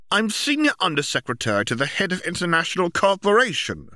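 retorting. Acted. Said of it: "Percy retorted".

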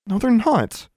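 high-pitched, stubborn contradiction; insistent denial. A narrator's reading. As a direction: push back hard. Girl contradicting shouting friend.

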